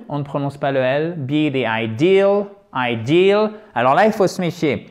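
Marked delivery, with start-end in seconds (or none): 1.7-3.5 IDEAL slow, «aï-DIIL»; accent tonique, i long. Shown as a demonstration. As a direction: punch and stretch the second syllable of IDEAL. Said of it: "c'est un I long". («ideal», accent et i long sur «deal»)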